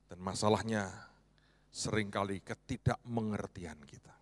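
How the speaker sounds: unvoiced, hushed confession of the point; hushed sermon aside; dramatic whisper. Real, not acted. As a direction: drop to a whisper for weight. Sermon emphasis dropped to whisper.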